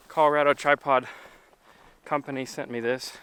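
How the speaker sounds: talking while off-roading; on a bumpy road. Real, not acted. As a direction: voice jolted by bumps. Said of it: "Sorry, it's really bumpy right now".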